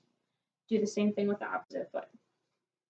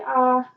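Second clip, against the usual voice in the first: demo aah; 3 semitones higher, 7 dB louder than usual. Shown as a demonstration. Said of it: "stick out your tongue and say".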